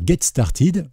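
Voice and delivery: English words with a French accent; French speaker's English pronunciation. Real, not acted. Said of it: "vous profitez de mon superbe accent anglais".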